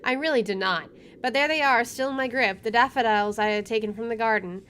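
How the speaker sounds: measured first-person narration; story narration. Acted. Player reading the game's inner monologue, story narration. Reads game narration aloud.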